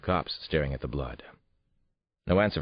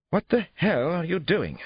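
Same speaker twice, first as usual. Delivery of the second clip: high, loud, drawn-out outrage; indignant protest; 14 semitones higher, 5 dB louder than usual. A narrator's reading. Suspect pulls away from detective examining his trousers, outraged protest. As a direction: protest loudly, pulling away.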